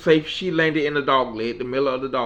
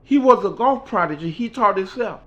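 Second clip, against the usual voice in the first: Mickey's voice; 8 semitones higher, 4 dB louder than usual. Retold or imitated. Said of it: "She said".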